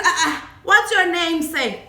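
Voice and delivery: loud, slow demand for his name; mock challenge. Challenging the driver.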